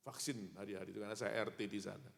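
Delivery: usual speaking voice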